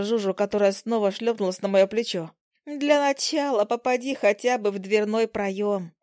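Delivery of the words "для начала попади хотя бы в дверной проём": slow teasing little fly; giggly fly voice. Acted. Fly teases heroine about her aim, slow mocking. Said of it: "хихикнула мушка".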